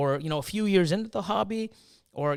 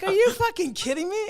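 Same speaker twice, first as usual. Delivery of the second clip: much higher, louder, laughing are-you-kidding; squealing laughing incredulity; laughing disbelief; 10 semitones higher, 3 dB louder than usual. Retold or imitated. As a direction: crack up at your own mistake. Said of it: "I'm like".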